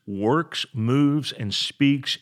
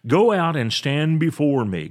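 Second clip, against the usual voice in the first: raised, commanding scripture reading; God's command, read aloud; 5 semitones higher, 6 dB louder than usual. A narrator's reading. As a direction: lift the voice for a divine summons.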